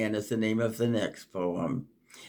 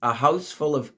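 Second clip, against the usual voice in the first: reflective, lilting poem recital; poem reading. Acted. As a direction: muse aloud in verse. Poem continues.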